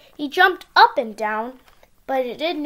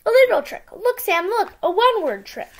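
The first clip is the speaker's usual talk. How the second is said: gleeful; 7 semitones higher, 5 dB louder than usual. Acted. Gus showing off trick.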